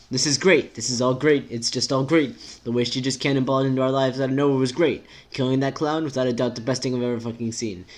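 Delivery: emphatic, lightly voiced sarcasm; sarcastic character. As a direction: insist on being thrilled, without meaning it.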